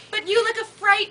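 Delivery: lightly voiced witch flattering the girl. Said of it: "the witch said".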